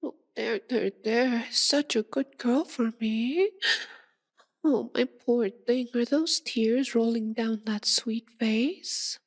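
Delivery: cooing sympathy. Acted. Vampire soothes her tearful pet after feeding, cooing. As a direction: fuss over a poor hurt pet.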